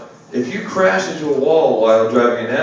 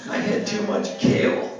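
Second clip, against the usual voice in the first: mock woman yelling back; 10 semitones higher than usual. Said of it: "screaming back".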